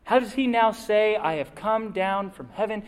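mock the claim, doubtful; skeptical grumbling. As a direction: Jews grumbling at Jesus, mildly scoffing. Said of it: "They said".

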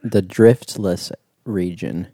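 each word spaced out slowly; slow, clear repeat. Real, not acted. Repeating the name for the host who missed it, slowly. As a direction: say it again slowly so it can be caught. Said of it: "The what?".

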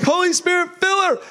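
high, loud call for the Spirit; loud high prayer over the woman on the street; commanding prayer. Retold or imitated. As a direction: pray over her with rising force. Praying over the new convert.

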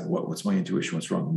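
soft, inward self-question; hushed inner thought. Retold or imitated. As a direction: murmur it to yourself, puzzled.

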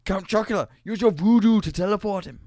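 high, loud put-on voice, Count Chocula shouted; full colonel impression up high; Colonel Gentleman voice. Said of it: "the Colonel Gentleman voice".

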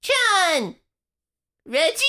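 high call into darkness. Acted. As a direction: search for friends by name. Calling out for companions.

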